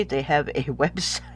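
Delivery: giggling through the words; laughing mid-sentence. Real, not acted. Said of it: "I'm just gonna leave that in 'cause it's funny".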